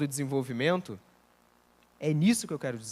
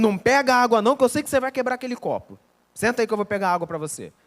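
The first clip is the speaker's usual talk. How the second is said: fast nagging overprotective parent, louder at the start; brisk mock scolding from a parent; 4 semitones higher, 4 dB louder, faster than usual. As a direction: cut the child off like a worried parent.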